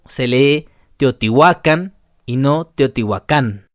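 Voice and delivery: Teotihuacán with the stress on "hua", set against the wrong stress on "cán"; stress on the second to last syllable. Shown as a demonstration. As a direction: say Teotihuacán as a right and a wrong take. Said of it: "El acento lo llevan en la penúltima sílaba". (acento en la penúltima sílaba de Teotihuacán)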